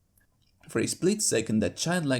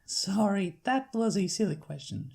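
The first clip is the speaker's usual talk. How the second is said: friendly big-sister country voice; Applejack's country accent; 7 semitones higher than usual. Acted. Applejack sending her sister to the farm, Southern accent.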